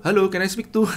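menirukan orang bule. Retold or imitated. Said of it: "saya tirukan".

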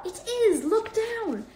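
high, loud, thrilled shout; excited yell. A narrator's reading. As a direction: yell it out, amazed at what he sees. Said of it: "Ron gave a yell".

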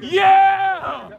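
loud joyful yeah; excited yell. Real, not acted. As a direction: cheer a big play. Celebrating a play.

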